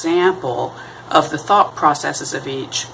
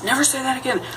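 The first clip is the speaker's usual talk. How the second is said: stern parent; 9 semitones higher, 4 dB quieter, faster than usual. Retold or imitated. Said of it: "your parent scolds you and says".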